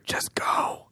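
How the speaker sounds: hushed, voiceless murmur; whisper. Acted. Player whispers to the dying dog, soft whisper. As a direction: whisper it into an ear. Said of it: "I whisper in his ear".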